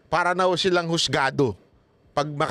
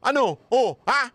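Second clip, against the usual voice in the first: higher pitched mock dare; taunting congressman; 6 semitones higher than usual. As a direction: goad him to show his courage. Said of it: "Kay Grijaldo". (panunuyang hamon)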